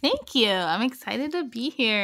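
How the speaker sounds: hint of a Valley Girl class valedictorian accent. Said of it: "bring my Valley Girl valedictorian accent".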